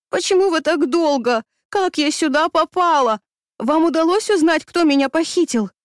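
tumbling questions in giddy relief; a freed captive pours out questions to her rescuer, excited; excited rush of questions. A narrator's reading. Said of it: "Дикая радость мгновенно охватила меня".

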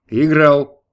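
booming single word; loud proud declaration. A narrator's reading. God tells Gabriel he was playing, booming. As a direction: announce it with a bang.

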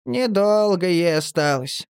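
high, slow doleful squeak; mournful. A narrator's reading. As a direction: announce it with gloomy longing. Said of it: "Марли тоскливо объявил".

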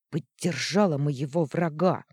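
громкое обвинение; яростно обвиняй подругу; в ярости. Acted. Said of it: "Она в ярости ткнула". (яростно и громко)

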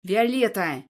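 Виолетта snapped loud and sharp; angry growl. Acted. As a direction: growl Виолетта to stop her. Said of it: "рычит Тарганов".

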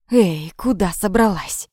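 slow, drawn-out menacing taunt; a lightly voiced thug puffing in her face. A narrator's reading. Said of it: "пропыхтел в лицо темнокожий парень".

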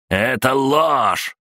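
high, drawn-out outraged cry; indignant shout. A narrator's reading. Gang boss denies prisoner's accusation, shouting indignantly. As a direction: shout the denial high, stretching it. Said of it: "закричал Сандер".

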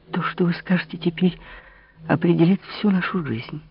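high, hushed, tearful pleading; Marie's final plea. Acted. Marie begs Louis not to lose her, high tearful plea. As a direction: beg him with mounting despair.

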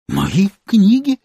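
high, slow astonished repeat; astonished echo. A narrator's reading. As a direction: echo his words in disbelief. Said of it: "в изумлении повторила". (изумлённо переспросить высоким голосом)

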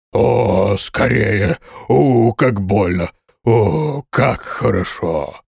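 slow, drawn-out groaning words of strain and relief; loud moaning. A narrator's reading. Dwarf relieving himself in the sand, moaning slowly. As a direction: moan through the pain, then the relief. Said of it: "При этом громко стонал".

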